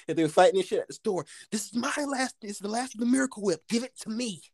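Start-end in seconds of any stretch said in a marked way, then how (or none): 1.5-4.4 high, fast mock whine over the Miracle Whip; man grabbing the last mayonnaise, in a high whiny voice; mock fighter. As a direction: play the guy grabbing for the last jar.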